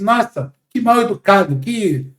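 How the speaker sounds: leve irritação fingida, terminando arrastado; indignação encenada. Acted. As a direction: finja um pensamento ofendido, com ênfase crescente. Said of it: "o meu cérebro fala assim". (indignação de brincadeira)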